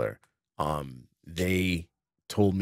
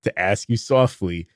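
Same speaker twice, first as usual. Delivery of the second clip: mock outrage; 3 semitones higher, 4 dB louder than usual. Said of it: "And I'm like".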